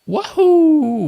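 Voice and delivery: high, loud whoop to open the show; excited cheer. Real, not acted. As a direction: shout it out to kick things off. Channel intro cheer.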